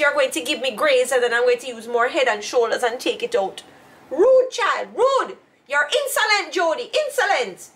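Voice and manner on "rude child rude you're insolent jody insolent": higher-pitched mock scolding of rude child; imitating scolding mother. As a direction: spit out insolent like a stern mother. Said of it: "She used to tell you you're insolent?".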